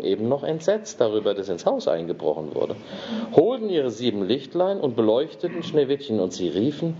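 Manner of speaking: storyteller reading Snow White aloud, dwarfs' questions voiced lightly; fairy tale reading. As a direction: read it like a bedtime tale.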